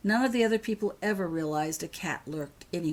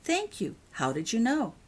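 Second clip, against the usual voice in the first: grateful surprise; 6 semitones higher than usual. Acted. Grateful surprised old lady.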